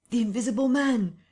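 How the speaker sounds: high, loud cry of alarm; panicked yell. A narrator's reading. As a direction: shout the warning to the workmen. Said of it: "he cried to the navvies".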